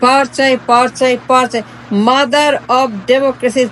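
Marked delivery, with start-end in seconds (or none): 2.1-3.6 slow, drawn-out sneer at the title; a slow, sarcastic drawl of the nickname; mocking drawl. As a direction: stretch each word out in mockery.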